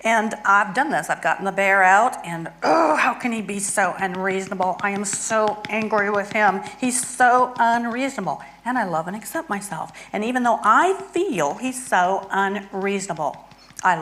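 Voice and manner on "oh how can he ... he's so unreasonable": demo anger. Shown as a demonstration. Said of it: "so I'm angry at my husband".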